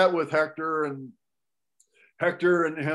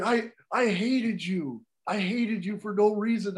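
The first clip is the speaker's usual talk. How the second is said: imitated tearful confession; 5 semitones higher than usual. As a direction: mildly mimic a tearful admission. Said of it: "he just starts crying again".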